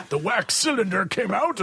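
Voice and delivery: high voice breaking into laughter; laughing joke. Real, not acted. Host joking about an album's age, laughing. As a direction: squeeze the punchline out through laughs.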